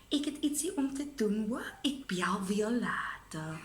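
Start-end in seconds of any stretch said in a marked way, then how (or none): 1.8-3.6 hushed brush-off. Acted. Hurrying off the phone.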